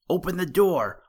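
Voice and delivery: loud, high shout at a shut door; a little rabbit yelling to be let in. A narrator's reading. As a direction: pound on the door and yell. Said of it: "shouted the little rabbit".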